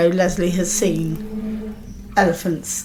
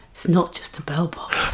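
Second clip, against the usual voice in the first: slow, soft whisper; softly whispered, drawn out; hushed ASMR voice; 6 dB quieter than usual. Pretend. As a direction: play along in a breathy ASMR hush. Joins the mock ASMR bit.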